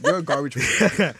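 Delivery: loud, laughing verdict. Real, not acted. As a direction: crack up while insisting. Laughing while repeating the judgement.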